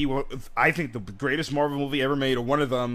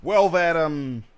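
put-on southern accent; much slower than usual. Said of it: "I have a southern accent".

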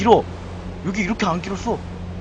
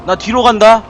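ordinary delivery

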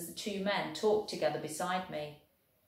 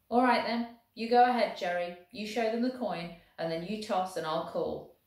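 lightly voiced Welsh soldier, proud and lively; a hint of a cheerful Welsh infantryman; 3 semitones higher than usual. Welshman boasting of rugby to the German, lightly voiced.

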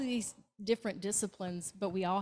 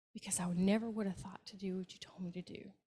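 tearful whisper; 4 dB quieter than usual. Retold or imitated. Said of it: "tears in her eyes".

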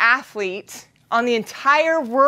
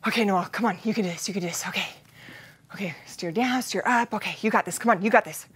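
soft, lower self pep talk; quiet pep talk; 5 semitones lower, 8 dB quieter, faster than usual. Retold or imitated. Slider alone at the start coaching herself in a soft low voice. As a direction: coax yourself under your breath. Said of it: "I'm just trying to give myself this, like, pep talk".

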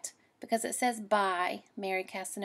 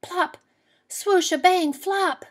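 higher and louder sound words; splashy crash words; 9 semitones higher, 6 dB louder, slower than usual. Acted. Reading the boat tipping over, higher and louder. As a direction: make the crash sound big.

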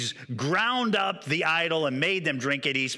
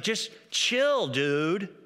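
surfer dude; much slower than usual. Retold or imitated. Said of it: "And he's like".

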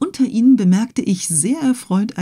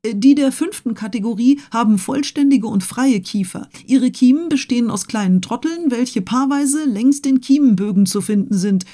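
pedantic Conseil; 4 semitones higher than usual. Acted. Conseil keeps classifying.

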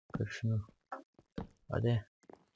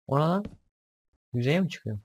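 startled yelp; 4 semitones higher, 3 dB louder than usual. Real, not acted. Scared by something in cave.

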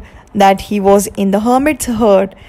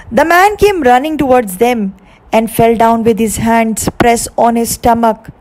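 ordinary delivery

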